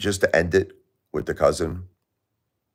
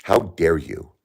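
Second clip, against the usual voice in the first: angry rant. Real, not acted. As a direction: spell out each grievance with real anger. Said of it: "Seriously, I'm pissed".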